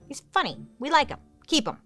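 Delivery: high, light cutesy approval; lightly voiced smitten pirates; fond pirates. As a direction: coo like they adopted a pet.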